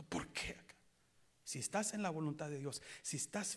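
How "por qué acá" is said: whisper. Retold or imitated. Voicing a sufferer's complaint.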